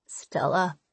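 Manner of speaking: faint unvoiced whisper; weak whisper. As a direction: barely breathe the name. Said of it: "I hear a weak voice say".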